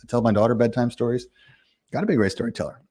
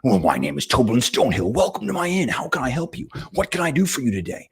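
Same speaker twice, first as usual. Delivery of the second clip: lightly voiced friendly innkeeper, pitched higher; 5 semitones higher than usual. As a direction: greet the weary traveller as a cheerful host. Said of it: "and he says".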